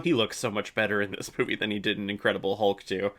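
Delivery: ordinary talk, nothing marked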